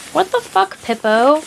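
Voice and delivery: high-pitched outraged squeal; disbelief. Real, not acted. Reader squealing in outrage at Pippo's betrayal. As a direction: shriek in disbelief at the traitor.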